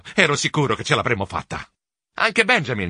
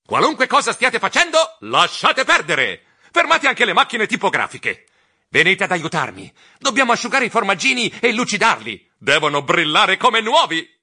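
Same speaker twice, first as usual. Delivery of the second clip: excited shout; 6 semitones higher, 4 dB louder than usual. Acted.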